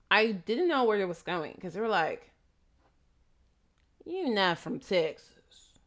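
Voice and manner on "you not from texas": slow, suspicious local; imitating a patient's slow intimidating remark. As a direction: challenge an outsider, drawn out. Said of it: "It's all intimidating and stuff".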